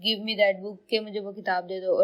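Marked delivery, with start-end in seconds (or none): 0.0-0.9 1 command. Shown as a demonstration. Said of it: "यहाँ मैं command दे रही हूँ".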